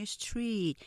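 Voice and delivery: "street" slowly with a lengthened ee; unhurried "street", consonants joined, vowel long. Shown as a demonstration. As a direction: hold the vowel of "street" as one syllable. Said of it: "길게 하시면서 천천히".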